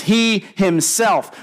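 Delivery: slow, punched "He himself" with HE called out; emphatic. Shown as a demonstration. Preacher showing the Greek emphasis to his congregation, slow called-out stress. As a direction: hit "He" hard, then "himself". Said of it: "is emphatic in the Greek".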